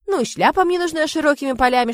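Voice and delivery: plain reading voice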